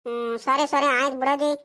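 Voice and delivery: mildly subdued, placating acted reply; grudging agreement. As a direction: give in to the scolding, a touch low. Scolded grandson gives in to grandmother. (ಒಲ್ಲದ ಮನಸ್ಸಿನ ಒಪ್ಪಿಗೆ)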